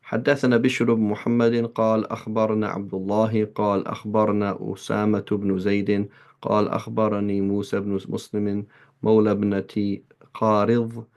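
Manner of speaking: fast Arabic text reading; hadith recitation. Acted. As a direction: rattle off the chain of narrators. Reads hadith chain in Arabic.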